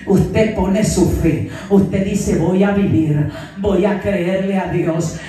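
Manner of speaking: loud, slow, low declaration of faith; forceful preaching. Real, not acted. Preacher urges the sick to declare they will live, loud and slow.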